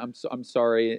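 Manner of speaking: mumbled, half-hearted mock apology; insincere apology. Kid made to apologize to sisters, insincere. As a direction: imitate a grudging, low sorry. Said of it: "That wasn't sincere at all".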